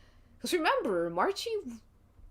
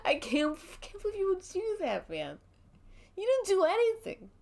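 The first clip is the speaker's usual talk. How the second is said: much higher, pleading and hurt; distraught; 11 semitones higher than usual. Acted. Dinky pleads with Marchie, distraught and much higher. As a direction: crack with hurt disbelief at a friend. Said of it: "Dinky's just distraught".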